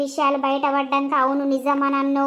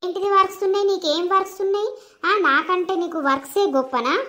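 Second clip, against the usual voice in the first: higher, raised, indignant challenge; angry retort; 4 semitones higher than usual. Acted. Wife scolding husband over his so-called works. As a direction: throw his excuse back at him. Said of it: "గట్టిగా మొత్తుకుంటున్నావు?".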